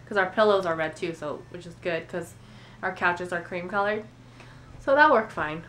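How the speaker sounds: stuffy nose from a cold; congested. Real, not acted. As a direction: speak with a blocked nose. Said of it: "Sorry if I sound a little bit congested".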